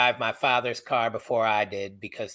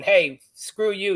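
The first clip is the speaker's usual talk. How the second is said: higher, slow, mouthy retort; mock angry yell; 6 semitones higher, slower than usual. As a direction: act out mouthing off at police. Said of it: "I start going off and yelling".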